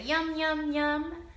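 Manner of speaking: monster yum. Pretend. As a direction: savour it like a happy monster. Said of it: "she'll say".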